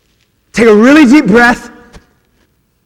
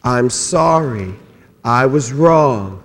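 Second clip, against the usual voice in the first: group apology, slow; 10 semitones lower, 6 dB quieter, much slower than usual. Shown as a demonstration. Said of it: "Let's say them together".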